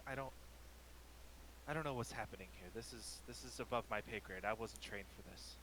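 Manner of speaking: soft, rattled guard out of her depth; nervous and quiet. Acted. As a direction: murmur it, shaken and unsure. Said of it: "rubs it nervously and goes".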